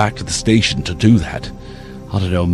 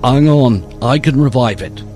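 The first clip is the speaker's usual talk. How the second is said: eager rookie; 5 semitones higher than usual. Acted. Rookie Dave eager to fix phone.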